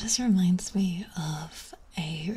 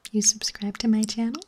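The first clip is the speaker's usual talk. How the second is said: mock YouTuber plea; 5 dB louder than usual. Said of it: "he looks in the camera and he goes".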